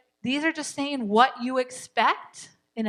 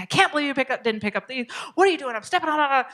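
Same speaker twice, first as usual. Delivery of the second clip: mock annoyed parent; 3 semitones higher, faster than usual. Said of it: "You don't say".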